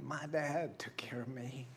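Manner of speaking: soft whisper. Real, not acted. Pastor confides love for his father, whispered. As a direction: whisper it as a private thought. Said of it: "unvoiced whisper".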